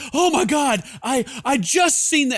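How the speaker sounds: mock panic. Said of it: "And she's like".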